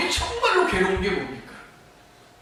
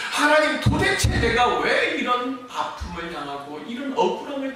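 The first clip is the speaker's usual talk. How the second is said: bitter complaint; 4 semitones higher than usual. Acted. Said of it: "불평하고 원망하면서".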